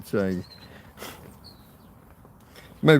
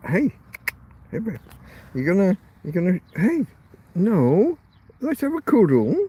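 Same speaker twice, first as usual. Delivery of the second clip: coaxing the dog; 3 semitones higher, faster than usual. Real, not acted. Coaxing his dog for cuddle.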